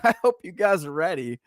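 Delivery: high mocking taunt; taunting Scots mates. Teasing Scottish drinking buddies in a high mocking voice. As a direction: rub it in, voice jumping high on bitch. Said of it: "I'm like".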